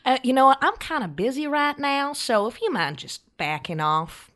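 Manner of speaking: high, cocky dismissal; smug brush-off. Acted. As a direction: brush him off, bored and cocky. Debbie's smug reply.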